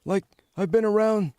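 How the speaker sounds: put-on high-pitched old man voice; elderly gentleman. Shown as a demonstration. Demonstrating a made-up voice, been around, elderly gentleman. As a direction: talk like an aged fellow, pitched well up. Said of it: "this could kinda pass as an elderly gentleman".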